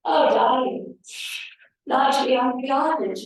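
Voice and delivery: mum's sweet country telephonist impression. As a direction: play mum doing her telephonist best. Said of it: "in her best country telephonist voice".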